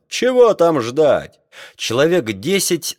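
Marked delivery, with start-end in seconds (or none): 0.1-1.4 high, slow exclaimed question; impatient cry. A narrator's reading. Crew eager to seize scientists, impatient cry. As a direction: cry out, stretching the words. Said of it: "кричала команда".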